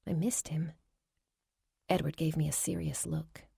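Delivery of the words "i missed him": breathy whisper. A narrator's reading. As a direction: let it slip out under the breath. Narrator's quiet admission.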